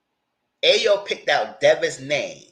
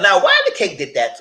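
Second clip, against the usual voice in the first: laughing; 5 semitones higher, 7 dB louder than usual. Real, not acted. Recounting Devin punching the cake.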